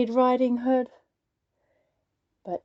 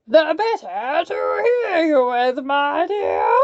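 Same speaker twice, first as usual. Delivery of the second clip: croaked; 4 semitones higher, 5 dB louder than usual. Acted. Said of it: "croaked the wolf".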